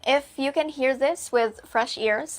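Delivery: ordinary delivery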